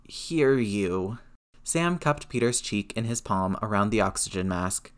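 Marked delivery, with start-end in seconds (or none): 0.0-1.2 hoarse, strained rasp; raspy. A narrator's reading. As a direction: rasp it out weakly. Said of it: "Peter rasped".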